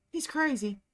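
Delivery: high, mildly voiced scream; a shrill-pitched accusation, lightly acted; girl accusing the stranger in a mild mock scream. A narrator's reading. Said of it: "she screamed".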